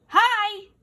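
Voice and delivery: loud high booming hi. Acted. Effie greets the grasshopper with a booming hi. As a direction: blast a single hi. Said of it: "all Effie said was".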